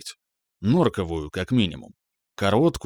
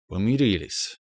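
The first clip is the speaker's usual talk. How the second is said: slow. Acted. Man slowly answers that they made up. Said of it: "медленно проговорил я".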